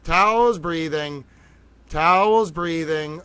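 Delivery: slow, drawn-out calming cue; deliberate breathing reminder. Real, not acted. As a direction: talk everyone down, word by stretched word. Calming himself and viewers down.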